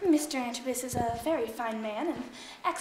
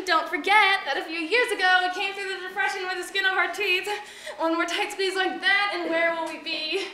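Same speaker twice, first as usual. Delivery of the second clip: raised, insistent prompt to an unseen colleague; pointed cue; 3 semitones higher than usual. Acted. Maid repeats her missed cue to offstage, pointedly.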